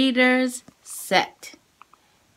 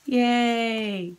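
ordinary talk

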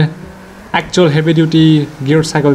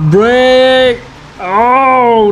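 urgent shout; 6 semitones higher than usual. Real, not acted. Urgent call during race.

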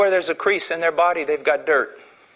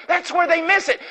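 much higher, ringing preacher's cry; preached emphasis; 11 semitones higher than usual. Shown as a demonstration. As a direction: hit the line hard like a revival preacher. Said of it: "repeated line, higher".

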